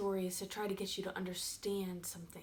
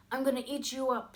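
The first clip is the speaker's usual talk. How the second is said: loud, raised troll voice; threatening troll; 5 semitones higher, 8 dB louder, faster than usual. Acted. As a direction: menace the goat as a hungry troll. Troll threatens the second goat.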